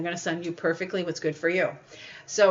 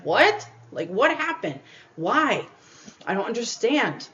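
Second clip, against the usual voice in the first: retold shock; 3 semitones higher than usual. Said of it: "And it's like".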